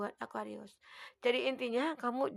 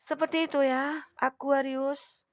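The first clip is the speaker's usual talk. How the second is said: louder, with a long stretched "Aquarius"; loud drawn-out call; 3 semitones higher, 9 dB louder, slower than usual. Acted. Reader calling out to her Aquarius viewers, loud and drawn out. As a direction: sing out "Seperti itu ya, Aquarius" to the viewers.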